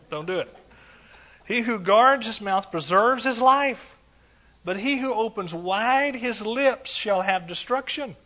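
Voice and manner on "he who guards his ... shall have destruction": slow, louder preaching of the verse; slow ringing verse read to the congregation; emphatic scripture reading. Acted. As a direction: proclaim the verse with weight. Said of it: "reading verse aloud".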